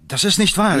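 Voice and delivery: high, loud indignant protest; stunned outrage; shocked denial. Acted. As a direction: blurt it out in disbelief.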